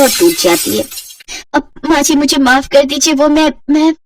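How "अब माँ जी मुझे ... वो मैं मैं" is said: higher, stammering apology; a hint of panic in the stammer; nervous bride. Simran apologises for the broken plate, nervous stammer.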